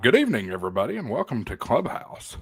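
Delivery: broadcast welcome, bright and big; host the show like an announcer; radio announcer voice. Acted. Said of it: "I've been doing it all night".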